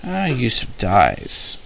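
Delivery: steady storyteller reading of his own draft; story narration. A narrator's reading. Author reading his story to listeners, in an even narration voice. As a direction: read the chapter out evenly.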